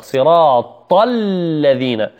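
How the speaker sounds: صراط الذين slowly, heavy ط straight into a long thin ل; heavy taa, light laam. Shown as a demonstration. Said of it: "من الحرف المفخم ننتقل إلى الحرف المرقق". (نطق صراط الذين بطاء مفخمة ولام مرققة)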